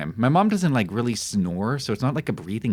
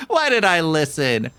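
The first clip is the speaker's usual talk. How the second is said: higher, louder whimpering cry; crying wail; 8 semitones higher, 5 dB louder than usual. Real, not acted. Streamer scared after opening the door, crying out. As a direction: wail it with a sob.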